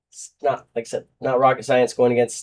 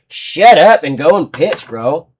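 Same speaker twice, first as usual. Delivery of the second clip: louder, scolding push; exasperated telling-off; 3 semitones higher, 6 dB louder than usual. Real, not acted. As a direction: snap at him to just pitch. Telling pitcher off.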